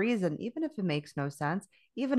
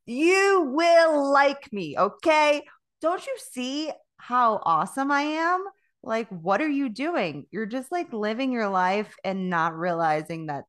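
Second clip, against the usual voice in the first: pushy show-off; 5 semitones higher, 6 dB louder than usual. Retold or imitated. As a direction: hammer your awesomeness onto them. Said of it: "force feed people my aura".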